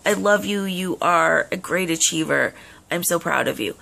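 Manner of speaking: mock-gush over her daughter's success, fading down; gushing praise. Mother gushing to her daughter over an achievement, excited. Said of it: "there's no like".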